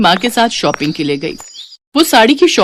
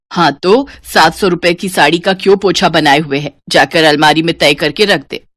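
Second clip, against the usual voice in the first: lower, firm nagging voice; scolding mother; 4 semitones lower than usual. Acted. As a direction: tell her off for the sari. (डाँटती माँ, भारी आवाज़)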